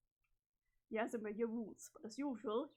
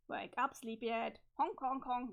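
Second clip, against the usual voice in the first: silly clown; 5 dB louder than usual. Acted. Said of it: "it's a honk".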